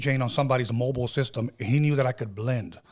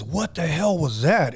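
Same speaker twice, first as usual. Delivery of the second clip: slow, raised-pitch mock alarm; retold startled alarm; 4 semitones higher, slower than usual. Brother runs back after hearing scratching, retold alarm. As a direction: draw it out as a startled question. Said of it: "And he gets scared".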